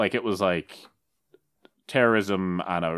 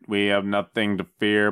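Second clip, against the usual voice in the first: Kennedy impression. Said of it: "give me a Kennedy".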